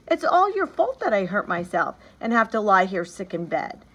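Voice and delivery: put-on high, loud reproachful child's outburst; a girl crying out at her godfather; cried out. A narrator's reading. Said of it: "she cried out".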